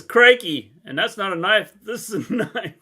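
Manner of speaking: hammed-up Crocodile Dundee Aussie line; a lightly put-on Australian twang; loud mock Australian quote; mock Australian accent. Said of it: "great accent there".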